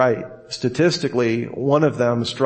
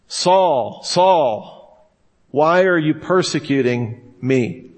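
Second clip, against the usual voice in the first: voice of Jesus calling; 2 semitones higher, much slower than usual. Retold or imitated. Quoting Jesus calling to Saul.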